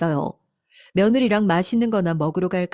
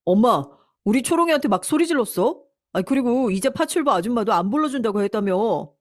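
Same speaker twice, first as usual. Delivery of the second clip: accusing, loudest at the opening; angry son; 4 semitones higher than usual. Acted. Son confronting mother about shouting at his wife, mildly angry accusation. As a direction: confront with a touch of anger. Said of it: "아들이 화가 잔뜩 나서는".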